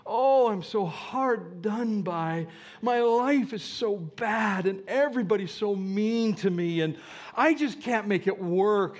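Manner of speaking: poor-me whining. Retold or imitated. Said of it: "the poor me of the grumbler".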